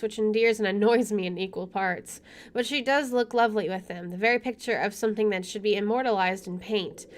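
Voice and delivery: measured first-person narration; story narration. Acted. Player reading the game's inner monologue, story narration. Reads game narration aloud.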